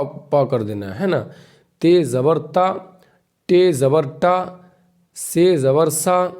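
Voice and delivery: slow, deliberate reading of each letter with zabar; slow syllable drill. Shown as a demonstration. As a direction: spell out every letter and its sound, slowly, for beginners. Teacher drills zabar syllables slowly. (آہستہ آہستہ حرف اور زبر کی آواز پڑھانا)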